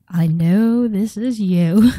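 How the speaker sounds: slow, drawn-out retold disbelief; knowing disbelief. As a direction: stretch each word, not buying it. Retells her disbelief at the call.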